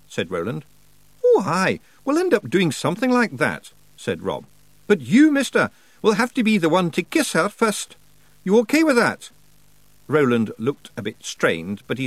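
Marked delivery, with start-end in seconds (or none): 1.2-9.3 high, broad Scots wee man, cheeky and gruff; a higher pitched Scots brawler voice; Scottish pictsie Rob. Acted. Pictsie chief thanking nobody for thanks, in a high Scots voice.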